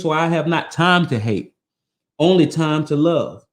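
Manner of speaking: measured, reverent reading of a creed; solemn recitation. Acted. Reading the scroll to his listeners, solemn recitation.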